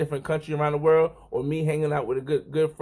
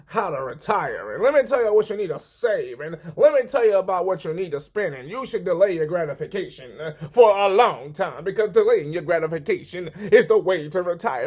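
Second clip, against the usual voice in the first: preachy finance-video guru; 2 semitones higher than usual. Acted. Vlogger mocking retirement-advice videos, sing-song preachy guru. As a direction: parody a preachy retirement expert. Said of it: "one of them videos, like, where all these people, they say".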